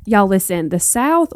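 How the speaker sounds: playful Southern accent with a lifted "the South". Shown as a demonstration. North Carolina host hamming up her Southern accent for listeners. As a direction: lean into a Southern twang on "y'all" and "the South". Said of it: "my Southern accent's not that great".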